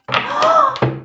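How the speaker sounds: high gasp of real surprise; sharp shocked gasp. Real, not acted. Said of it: "I'm sorry for screaming".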